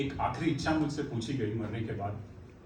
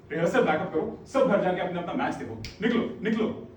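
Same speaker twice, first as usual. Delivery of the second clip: raised, higher voice dismissing everyone; calling out orders; 4 semitones higher, 5 dB louder than usual. Acted. Director sends his troupe home for the match, calling out orders. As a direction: send the whole troupe off, voice up.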